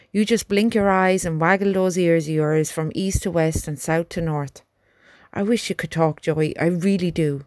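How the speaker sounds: earnest young soldier, lightly voiced; a country lad talking to his horse. Albert continues.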